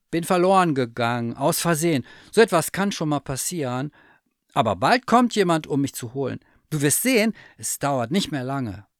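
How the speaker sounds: high, loud forced-confident bear; brave lost teddy bear. Acted. Lost bear insists to the cat someone will come, high and brave. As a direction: talk up hope to hide fear.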